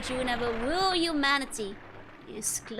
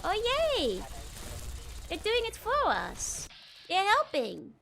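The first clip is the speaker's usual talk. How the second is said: excited cheer; 10 semitones higher, slower than usual. Real, not acted. Cheering allies on in game.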